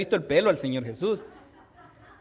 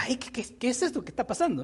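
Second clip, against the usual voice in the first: higher, soft, hurried stammer; mock bewilderment; 4 semitones higher, 6 dB quieter, faster than usual. Blind man hears the crowd arriving, mock bewilderment. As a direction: act out a puzzled bystander, quietly and quickly.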